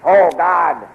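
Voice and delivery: sharp cry of pain under the whip. Acted. Prisoner whipped, cries out.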